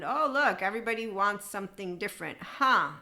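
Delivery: sarcastic wide-eyed discovery; mock surprise. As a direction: act out fake astonishment, then a loud puzzled "Huh?". Mock surprise at negotiating table.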